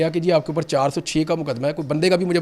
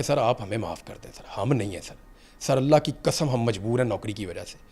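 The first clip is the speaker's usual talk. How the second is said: near tears; 6 semitones lower, 6 dB quieter than usual. Retold or imitated. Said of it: "تقریباً رو رہے تھے".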